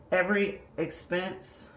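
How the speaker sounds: winded, short of breath. Real, not acted. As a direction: push it out while out of breath. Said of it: "I'm out of breath".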